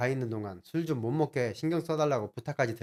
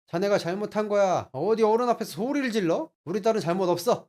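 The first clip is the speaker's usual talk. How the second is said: higher, louder reproach; stern scolding; 7 semitones higher, 6 dB louder than usual. Retold or imitated. Father-in-law scolding son-in-law for shouting, stern. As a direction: scold him as an offended elder.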